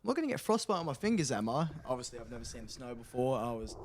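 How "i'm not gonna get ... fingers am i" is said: retold naive question. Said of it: "I turn around and go".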